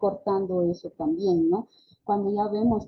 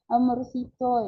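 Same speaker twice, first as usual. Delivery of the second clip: put-on "Amorcito" in higher baby talk; cutesy, childlike "Amorcito"; childish endearment; 4 semitones higher than usual. Shown as a demonstration. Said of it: "entonces ya bajo mi entonación".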